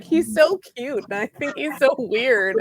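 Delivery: drawn-out, lightly gushing retold quote; mock psyched. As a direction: imitate someone psyched about a crush, stretching it slowly. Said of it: "like, psyched about it".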